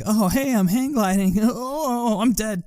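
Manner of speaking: high-pitched cartoon wail; hammed-up high cry of a falling man; mock doomed hang glider. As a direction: sing out your own silly demise, up high.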